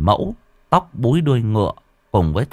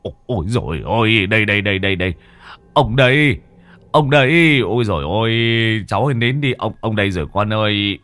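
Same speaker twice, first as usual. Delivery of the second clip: howling; faster than usual. A narrator's reading. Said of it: "rú lên một tiếng".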